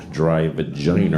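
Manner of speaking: put-on low Boston-accented delivery. Comic reads a mock store slogan, Boston accent. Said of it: "people call it the Boston accent".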